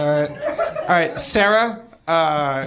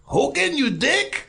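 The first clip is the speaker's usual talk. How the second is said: put-on Hispanic accent; 7 semitones higher, slower than usual. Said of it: "Hispanic Hogan's Heroes".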